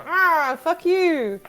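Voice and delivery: mock-angry British-accented curse; retold angry outburst. Player retelling the wedding guests' anger, mock outburst.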